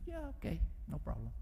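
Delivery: offhand husband. Retold or imitated.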